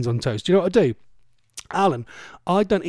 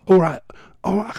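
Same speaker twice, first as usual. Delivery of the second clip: put-on fumbled try at a Geordie accent; attempted Geordie accent; 4 semitones higher, 4 dB louder than usual. Host trying to copy Alan, attempted Geordie accent. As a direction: test out a Geordie greeting and falter. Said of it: "I can't do his accent".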